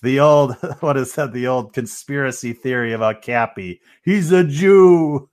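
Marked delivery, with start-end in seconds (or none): 4.0-5.3 conspiratorial voice. Retold or imitated. Mock conspiracy voice.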